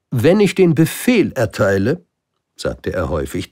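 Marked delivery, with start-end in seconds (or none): 0.1-2.0 high, loud royal reasoning; grand king. Acted. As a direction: lecture from the throne. King explains his orders. (König, hoch und laut erklärend)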